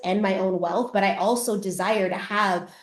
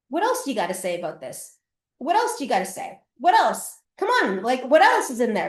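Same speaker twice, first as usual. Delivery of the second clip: provoking; 3 semitones higher than usual. Retold or imitated. Shit disturber Colleen goading the ex, taunting. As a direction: egg him on, goading. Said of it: "shit disturber Colleen".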